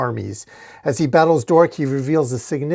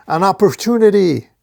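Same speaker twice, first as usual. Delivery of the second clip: higher, louder triumphant call; yell; 6 semitones higher, 5 dB louder than usual. A narrator's reading. Dork seizing his chance on Glowing Spear, a performed yell. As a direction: yell it out with relish. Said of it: "And Dork yells".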